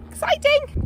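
very high, loud burst of excitement; excited squeal. Real, not acted. Vlogger announcing jumping to viewers, excited squeal. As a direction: squeal it out, thrilled.

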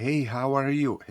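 "Hey, how are you?" with a fresh tune, hey stressed, falling end; another intonation. Shown as a demonstration. Teacher drilling the greeting for learners, second intonation. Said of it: "з різними інтонаціями".

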